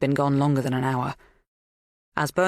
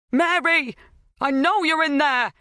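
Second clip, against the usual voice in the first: loud, high cry through the door; 12 semitones higher, 4 dB louder than usual. A narrator's reading. Helen shouting at Mary through the door. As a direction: yell it at the door. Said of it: "Helen cried".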